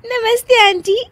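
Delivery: high, laughing hello; giggling greeting. Acted. Daughter-in-law greeting aunties, giggling.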